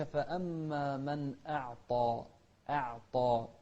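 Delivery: slow أعطى with crisp hamza and dark ط; clear hamza, heavy taa. Shown as a demonstration. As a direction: start أعطى on a clean catch, fatten the ط and its vowel. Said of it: "نوضح الهمزة".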